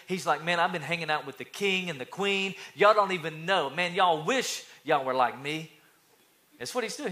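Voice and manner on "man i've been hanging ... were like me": puffed-up braggart, emphatic; acted cocky swagger; arrogant boasting. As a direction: brag loudly about your important friends. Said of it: "he's puffed up with pride".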